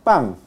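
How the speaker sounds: pan ending in a velar ng; velar final n. Shown as a demonstration. Teacher models coastal Spanish for class, velar final n. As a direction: say "pan" with a back-of-throat final n. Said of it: "sino como pan".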